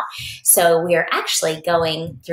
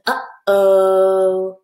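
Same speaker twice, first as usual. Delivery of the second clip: uh-oh; 6 dB louder than usual. Acted. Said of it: "you can see he's over here saying".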